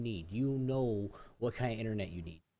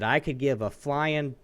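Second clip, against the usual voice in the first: louder, slowed, building anger; getting mad; 5 dB louder, slower than usual. Retold or imitated. Losing patience with the rep, slow and louder. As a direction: lean in slowly, angry. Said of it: "I started getting mad".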